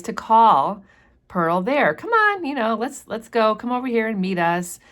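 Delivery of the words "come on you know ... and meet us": high, sweet coaxing voice, much higher on the first words; imitating a mother coaxing her little girl. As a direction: coax a shy child over to you, lightly acted. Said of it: "She tries to coax her".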